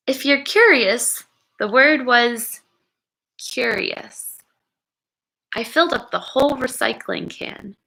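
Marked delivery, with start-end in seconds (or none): 3.4-4.4 whispered reveal. Acted. Dramatic reveal of the word.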